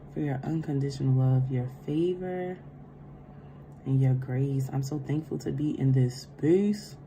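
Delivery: soft, reverent invocation; gentle spiritual invocation; opening prayer. Real, not acted. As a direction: pray quietly before the reading.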